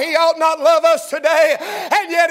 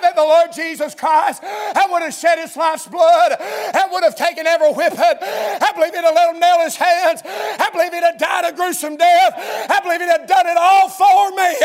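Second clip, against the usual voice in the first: preaching; 2 semitones higher than usual. Acted. Preacher testifying to the congregation about the cross, fervent. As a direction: hammer each "I believe" harder.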